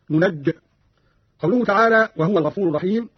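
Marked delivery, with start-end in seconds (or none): 0.1-0.5 ننج cut off on the j, "nunajj"; stop dropping ya. Shown as a demonstration. Teacher shows the pause form, ننج without its ya. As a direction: stop on the doubled j of ننج, no final i. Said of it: "وقف بحذف الياء كحفص".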